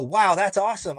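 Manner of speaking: lightly acted wonder and approval; impressed. Driver passing the march and honking, impressed.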